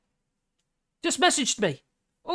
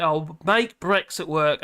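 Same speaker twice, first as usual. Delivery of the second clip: slow, lower mock politician tone; mocking Starmer; 5 semitones lower, slower than usual. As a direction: imitate him lightly, drawn out. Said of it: "he starts falling like".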